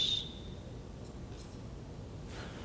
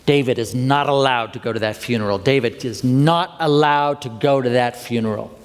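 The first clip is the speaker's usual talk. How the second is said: lightly put-on Southern therapist; firm ruling with a hint of Southern; Southern accent. Therapist forbidding his client the funeral, Southern accent. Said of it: "with this very Southern accent".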